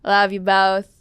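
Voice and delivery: normal talking voice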